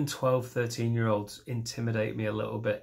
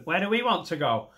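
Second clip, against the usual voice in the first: put-on northern accent; 5 semitones higher than usual. Family asking where to move, northern accent. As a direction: ask it in a hammed-up northern accent. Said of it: "So northern".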